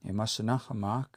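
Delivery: Imasinahamak with a long last "a" and audible K; longer A, clearer K. Shown as a demonstration. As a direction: draw out "ma", then close Imasinahamak on K. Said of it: "K is a little bit more prominent".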